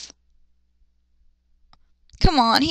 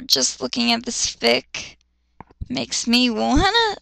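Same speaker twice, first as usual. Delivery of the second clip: slow, sickened disgust; slower than usual. Real, not acted. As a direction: drag it out like you're nauseous.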